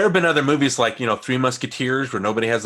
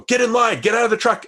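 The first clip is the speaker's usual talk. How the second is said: higher, louder mock commands; German soldiers' orders; 11 semitones higher, 4 dB louder than usual. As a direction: imitate soldiers yelling out orders. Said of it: "you hear the Germans go".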